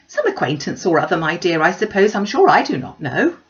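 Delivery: dismissive mother. Acted. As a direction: brush the question aside, a touch loud.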